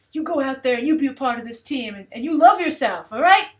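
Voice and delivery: hammed-up assistant coach rallying a player; a teasing imitation of a motivational speech; mock pep talk. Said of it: "his little motivational speech".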